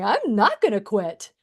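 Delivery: rising, determined through tears; retold tearful resolve. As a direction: push the voice up with resolve. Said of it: "as I'm wiping my tears going".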